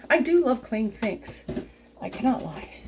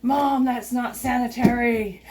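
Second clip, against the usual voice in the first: mock nagging teen; slower than usual. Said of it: "nagging at her when I was a teenager".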